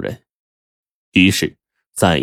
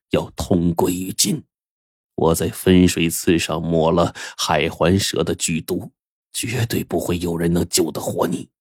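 menacing avenger; 4 dB quieter than usual. Acted. Vengeful killer gloats over victim.

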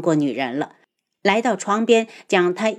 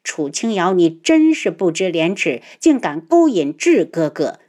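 jealous anger. Acted. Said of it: "气得早饭都没有吃".

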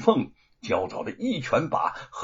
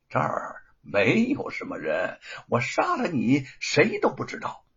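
leisurely menace. Acted. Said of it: "悠悠地说".

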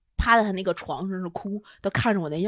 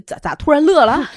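laughing; 7 semitones higher, 6 dB louder than usual. Real, not acted. Host suddenly bursts out laughing.

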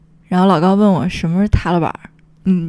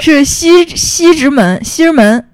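Beijing accent; 5 semitones higher than usual. Shown as a demonstration.

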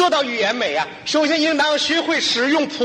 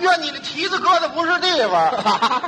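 rude indignant retort; 5 semitones higher than usual. Acted. Rude rider scolds the stepped-on passenger, indignant and mocking. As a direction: bite back as if he's the wronged one.

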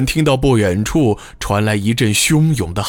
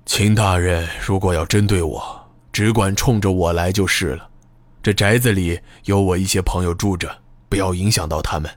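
lower, steady composure; calm and even; 4 semitones lower than usual. Acted. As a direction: speak calmly despite the pain. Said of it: "语气平和地说道".

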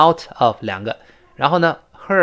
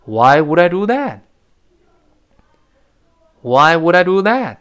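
louder, higher mock-aggrieved question; wronged protest; 4 semitones higher, 5 dB louder than usual. Accused husband answers his wife, wronged protest. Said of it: "体会一下这语气".

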